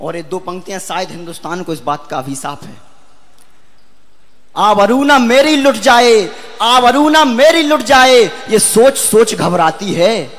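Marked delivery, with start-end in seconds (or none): 4.6-10.3 drawn-out, emphatic verse; impassioned poem recitation. Acted. Poet voicing a girl's dread of dishonour, impassioned recitation. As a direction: declaim the plea, stretching the key words.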